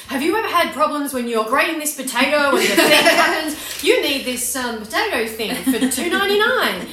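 loud, hyped TV shopping pitch; infomercial voice. Retold or imitated. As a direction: sell it like a late-night ad. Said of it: "We use that infomercial voice".

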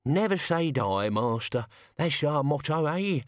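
a hint of chewing while speaking; mouth full. A narrator's reading. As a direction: cheer on the master through a mouthful. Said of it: "apparently with their mouth full".

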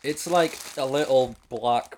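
words round a sour sweet; eating sour candy. Real, not acted. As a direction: talk with candy in the mouth. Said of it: "put it back in your mouth".

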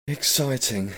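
high, dreamy hopefulness; hopeful. A narrator's reading. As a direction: drift off hopefully, pitch lifted. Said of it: "looking out into the distance hopefully".

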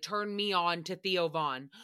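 imitating David. Mocking co-host David's phrase, slow low imitation. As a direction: drag it out like the guy who said it. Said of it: "that's literally what David said".

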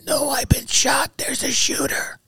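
very high, strained, drawn-out cry; stretched-out distant shout, held back in volume; re-enacted yell. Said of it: "I yell back to them".

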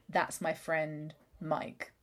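slow, softened imitation of a possessed boy; imitated creepy possession. Podcast host imitates a possessed boy's line for co-host, creepily slow. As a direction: quote it slowly, subtly off. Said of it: "That's creepy".

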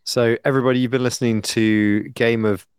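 tongue-in-cheek radio sign-off; mock ad read. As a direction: read it like a travel agency advert. Mock travel agency ad read.

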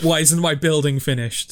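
lightly voiced gangster boss; New York mob boss. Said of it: "like a New York mob boss".

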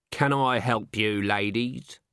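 grudging, slow offer of help; unhelpful. A narrator's reading. A voice greets two unwelcome visitors, grudging and unhelpful. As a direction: ask it with no intention of helping. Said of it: "Its tone suggested very clearly".

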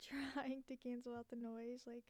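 muffled and out of breath; under a blanket. Real, not acted. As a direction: talk from under a blanket, panting. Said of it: "I'm breathing so hard 'cause it's a little toasty in here".

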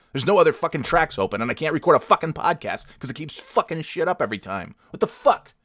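high-pitched angry swearing, building; exasperated rant. Real, not acted. Podcaster cursing the computer that won't record, exasperated. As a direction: climb to an outraged final curse.

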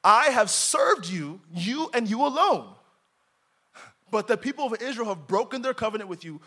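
a prophet shouting his complaint at God; acted shout. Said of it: "he's probably shouting at this point".

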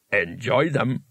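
slow, calm stone voice; an unbothered rock, speaking slowly; talking rock voice. Acted.

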